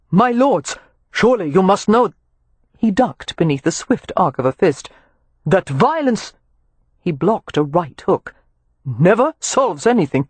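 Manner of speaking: a touch of a composed gentleman dodging blows; calm peacemaker. Acted. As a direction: keep it reasonable between punches. Peacemaker pleads mid-fight.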